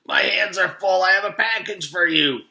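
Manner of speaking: breathless, loud and high under the weight; straining under the heavy box, gasping. Acted. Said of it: "Louis gasped".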